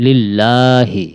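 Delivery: "লিল্লাহি" slow with a long a; drawn-out vowel. Shown as a demonstration. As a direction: stretch "লিল্লাহি" slowly. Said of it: "উচ্চারণ করতে হবে লিল্লাহি".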